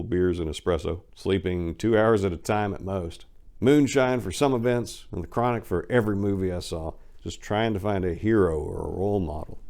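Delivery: steady storytelling read of a memoir; first-person narration of a rough past. Acted. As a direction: read it like a confessional autobiography. Reading memoir aloud.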